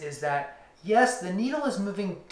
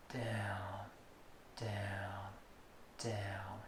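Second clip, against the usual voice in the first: whispered, much softer and lower downs; 7 semitones lower, 15 dB quieter, much slower than usual. Shown as a demonstration. Teacher whispering the emphasized downward movement. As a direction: breathe the downs out. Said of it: "I need to emphasize one of those movements".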